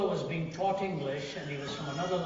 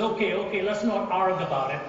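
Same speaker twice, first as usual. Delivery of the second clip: louder, higher, laughing through it; laughing give-up; 4 semitones higher, 8 dB louder than usual. Retold or imitated. Friend gives up arguing grammar, loud and laughing. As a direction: throw up your hands with a laugh.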